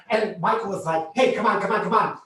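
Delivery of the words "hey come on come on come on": loud, urgent husband; raised voice, rising to a shout; urgent calling. Retold or imitated. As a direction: urge your partner to make a break for it. Husband urging her to flee.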